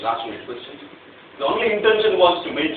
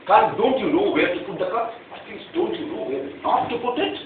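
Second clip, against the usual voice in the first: retold yell; 3 semitones higher, 3 dB louder than usual. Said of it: "I yell at my wife".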